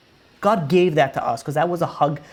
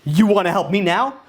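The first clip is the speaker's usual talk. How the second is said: annoyed wife; 4 semitones higher than usual. Retold or imitated. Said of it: "she goes, like".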